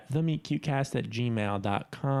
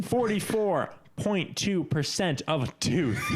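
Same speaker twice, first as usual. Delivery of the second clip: excited; 7 semitones higher, slower than usual. Real, not acted. Silly score announcement.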